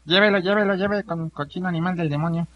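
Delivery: street hawker. Pretend. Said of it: "yo hablando así como merolico".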